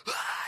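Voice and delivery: breathy, voiceless mock scream. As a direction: imitate a scream without full voice. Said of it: "starts screaming in his face".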